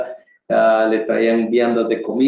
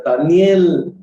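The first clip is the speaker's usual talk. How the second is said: sad call; 5 semitones higher, 4 dB louder than usual. Retold or imitated. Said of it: "con voz triste".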